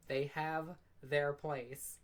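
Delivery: slow, dry, resigned mock Michael; imitating Michael. Streamer voicing Michael sighing at her stupidity, slow dry tone. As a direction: drag it out like a tired friend giving up. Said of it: "Michael just standing behind me like".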